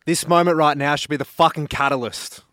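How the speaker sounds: earnest, punchy speech with slowed key lines; motivational speech. Acted. Guest giving a motivational speech to listeners, earnest and punchy. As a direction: inspire them to change today. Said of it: "motivational speech".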